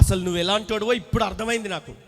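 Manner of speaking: loud accusation. Retold or imitated. Interpreter voicing wife's accusation to husband, loud and fast. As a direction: rattle it out high and loud.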